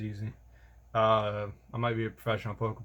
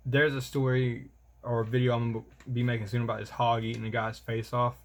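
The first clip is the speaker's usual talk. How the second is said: monotone. Real, not acted. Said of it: "I say it very monotone then".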